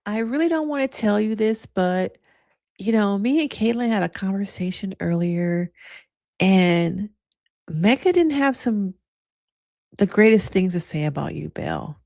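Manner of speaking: Michelle. Acted. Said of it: "Great Michelle voice".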